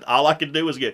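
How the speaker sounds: ordinary delivery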